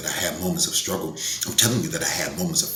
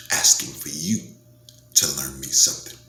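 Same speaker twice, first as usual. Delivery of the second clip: whisper; 3 semitones lower than usual. Real, not acted. Desperate plea, whispered.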